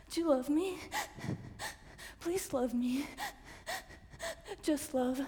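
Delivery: crying plea for love; pleading cry. Acted. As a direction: beg through tears.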